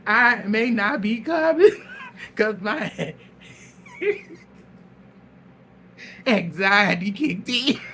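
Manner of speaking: mock her flimsy excuse while cracking up; mocking quote through laughter. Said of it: "And this bitch said".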